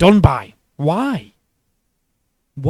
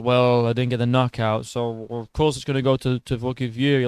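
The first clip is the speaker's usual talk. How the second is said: low grumbling excuse; lightly voiced sore loser; mocking Wilder-style excuse; 4 semitones lower, 3 dB quieter than usual. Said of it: "Dude genuinely sounds like Wilder".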